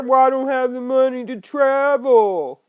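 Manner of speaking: a light mock whine of a lazy excuse-maker; whiny excuse. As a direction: mimic the lazy patriot lightly, half-mocking. Voicing a lazy patriot's excuse.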